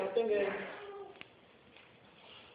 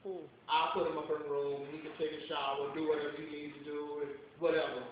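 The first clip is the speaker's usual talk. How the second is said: mean white pastor; 6 semitones lower than usual. Retold or imitated. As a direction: drop the voice low and smug like a mean pastor. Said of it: "He said".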